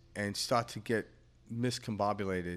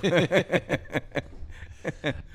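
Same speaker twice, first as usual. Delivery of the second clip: higher-pitched burst of laughter; 6 semitones higher, 4 dB louder than usual. Real, not acted. Joking about taking care of Karen, laughing. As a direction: laugh out loud at your own joke.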